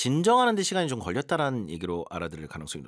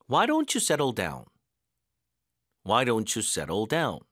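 teacher's drill, stressed question words; stressed practice reading; much slower than usual. Shown as a demonstration. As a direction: stress on why and down. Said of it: "강세 넣는 연습해볼게요".

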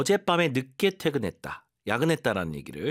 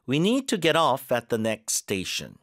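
slow model sentence; much slower than usual. Shown as a demonstration. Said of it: "뒤에 힘 잘 주시고".

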